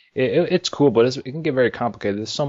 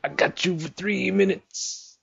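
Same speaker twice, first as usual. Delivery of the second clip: high, slow drawn-out wrestler taunt; Macho Man voice; 10 semitones higher, 4 dB quieter, slower than usual. Retold or imitated. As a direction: drag it out like a wrestling promo. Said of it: "you can hear Macho Man in the distance".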